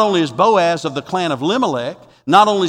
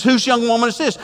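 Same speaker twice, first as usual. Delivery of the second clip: excited; 6 semitones higher than usual. Acted. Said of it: "He gets excited".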